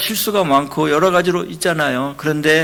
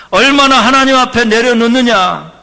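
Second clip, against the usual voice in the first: 얼마나 hit hard, the whole line louder and higher; building sermon cry; 7 semitones higher, 10 dB louder than usual. Acted. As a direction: repeat it as a rising call to the congregation. Preacher repeats it, building.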